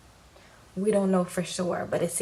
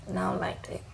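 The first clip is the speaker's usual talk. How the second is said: whisper; 4 dB quieter, faster than usual. Retold or imitated. Michael dismissing upset girlfriend.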